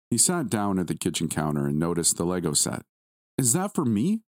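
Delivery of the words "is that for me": put-on high, thrilled little boy; excited exclaiming. A narrator's reading. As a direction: gasp it out with delight. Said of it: "he exclaimed loudly".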